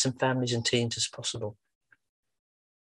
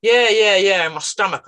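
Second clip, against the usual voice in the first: put-on eager teen; 6 semitones higher, 7 dB louder than usual. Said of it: "And he went".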